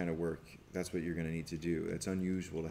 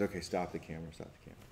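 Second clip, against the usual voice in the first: softer, fading to a whispered stop the camera; mild retold crying plea; quiet, choked-up plea; 7 dB quieter, much faster than usual. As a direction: ask to cut while holding back tears. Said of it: "And then he says".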